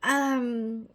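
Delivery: put-on slow, breathy stab at a Scottish accent, fading to a whisper; a failed try at a Scottish accent that comes out British; mock Scottish accent; attempted Scottish accent. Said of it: "That was totally not even Scottish".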